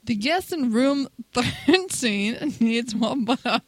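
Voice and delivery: slow, halting attempt at a British accent; badly faked British, stretched out slowly; failed British accent. Shown as a demonstration. Contestant attempting British on the host's request, failed British accent. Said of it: "it would count as a fail accent".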